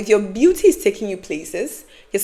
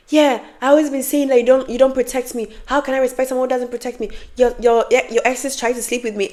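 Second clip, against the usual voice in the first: higher-pitched retort, run on; defiant sister; 4 semitones higher than usual. Retold or imitated. Sister justifying herself in a fight, mildly defiant. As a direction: imitate a sister firing back.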